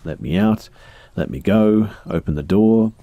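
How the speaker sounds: put-on trapped girl breaking her forced calm; losing calm. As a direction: rise from plea to near shout. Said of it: "Struggles to keep her voice calm".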